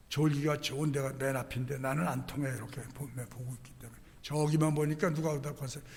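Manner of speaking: ordinary talk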